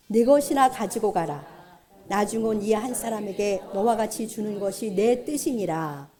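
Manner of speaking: measured, projected Bible reading; steady, solemn recitation of scripture. Shown as a demonstration. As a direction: read the verse out formally to the congregation. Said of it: "같이 읽어보겠습니다".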